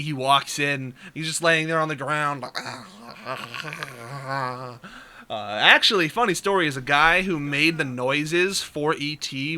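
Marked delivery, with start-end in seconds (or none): 3.1-4.9 soft imitated groan of a sick alien; sick E.T. noise. Exhausted gamer likens himself to dying E.T., soft sick groan. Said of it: "like Elliot in E T".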